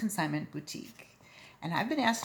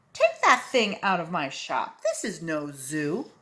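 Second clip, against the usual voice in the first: annoyed barber; 5 dB louder than usual. Acted. Angry barber orders him out.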